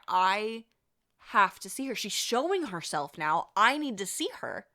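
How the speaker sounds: emphatic, insistent demand; acted intensity. Storyteller voicing Deb desperate to see the ghost, intense and insistent. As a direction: lean hard on the need. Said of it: "She's just so intense".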